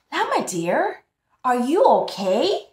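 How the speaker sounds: concerned grandma. Acted. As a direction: ask gently but worried. Grandma checks on llama.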